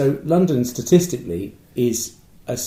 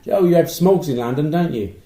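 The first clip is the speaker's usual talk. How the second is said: put-on American accent; 3 semitones higher, 4 dB louder than usual. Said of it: "I'll try my American accent".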